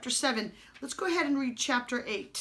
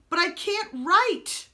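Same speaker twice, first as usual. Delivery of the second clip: high, loud sudden blurt; the prince blurts it out in a panic; spoiled prince blurting a protest; 8 semitones higher, 5 dB louder than usual. A narrator's reading. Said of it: "blurted out Prince Brat".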